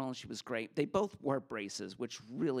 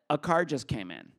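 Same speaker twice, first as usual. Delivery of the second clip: urgent warning; 7 dB louder than usual. Retold or imitated. Friend warns of police.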